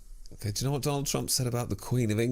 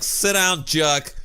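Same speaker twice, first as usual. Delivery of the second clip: higher, louder huffy Queen put-down; mock Queen retort; 5 semitones higher, 5 dB louder, slower than usual. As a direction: snap it as an offended monarch. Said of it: "the Queen had to be like".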